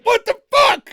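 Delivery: high, loud mock outrage; shocked quote. Host imitating people shocked he voted Trump, loud. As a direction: play their disbelief big. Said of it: "And they're like".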